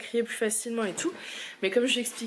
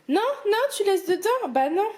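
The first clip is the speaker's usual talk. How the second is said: high, louder warning; gentle telling-off; 10 semitones higher, 4 dB louder than usual. Real, not acted. Mother stopping her toddler taking things out, high firm warning. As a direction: stop him playfully but firmly.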